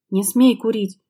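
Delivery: shout. Acted. Wife yelling at husband not to smoke, sharp. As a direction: forbid it with a yell. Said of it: "закричала она".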